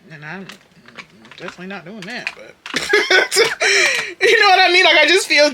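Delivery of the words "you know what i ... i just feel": loud laugh. Real, not acted. Laughing to her viewers about her spending guilt. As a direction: burst into a high laughing shout.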